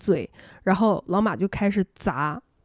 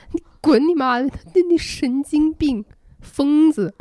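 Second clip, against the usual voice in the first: fed-up yell, higher and louder; angry outburst; 6 semitones higher, 4 dB louder than usual. Retold or imitated. Narrator retelling how she finally told off Laoma, angry yelling. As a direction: snap back at him, losing it. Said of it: "我已经彻底受不了了".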